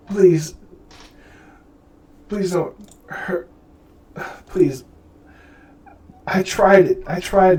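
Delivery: high, halting, begging voice; desperate pleading. Acted. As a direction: plead for mercy between broken pauses. Cornered Lyle begs the woman.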